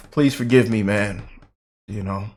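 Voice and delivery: ordinary delivery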